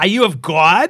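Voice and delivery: loud, insistent, pressing, demanding tone. Reading Betty's line aloud from a story: demanding. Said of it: "Betty demanded".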